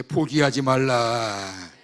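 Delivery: slow and loud, drawn out; slow prompt. Shown as a demonstration. Pastor models what to tell the person beside you, slowly. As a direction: say it slowly to your neighbor. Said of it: "옆에 사람한테".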